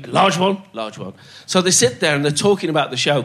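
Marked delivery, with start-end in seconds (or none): 0.1-0.6 asking voice, a touch higher; mock Dennis asking; one of two parts. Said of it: "played the two parts". 0.7-1.1 low, soft answering voice; mock Tommy answering softly; other of two parts. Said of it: "played the two parts".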